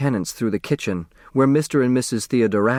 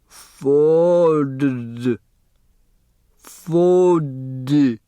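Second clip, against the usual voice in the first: put-on raised, fond older woman's voice; elderly neighbor voice; 4 semitones higher, 3 dB louder than usual. A narrator's reading. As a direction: voice the chatty old neighbor, higher. The speaker slowly sounding out name.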